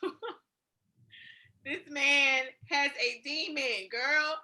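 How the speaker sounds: mock church lady through a laugh; soft laughing imitation of a church woman; giggling as a church lady.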